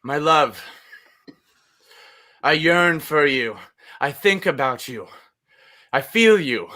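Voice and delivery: lightly sultry lover, with long pauses; mock sexy love letter. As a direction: dictate a hammed-up love letter, pausing between phrases. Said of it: "That's a very sexy".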